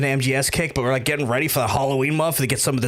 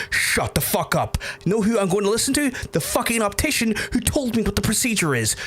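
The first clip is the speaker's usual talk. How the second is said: angry retort; 6 semitones higher than usual. Retold or imitated. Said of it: "Was really angry that day".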